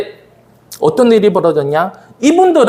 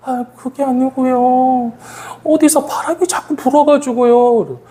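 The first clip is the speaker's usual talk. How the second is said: imitated apologetic explanation, drawn out; mock-helpless, stretched-out excuse; sheepish excuse; 5 semitones higher, slower than usual. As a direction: plead your case in a higher voice. Acted teacher's sheepish excuse.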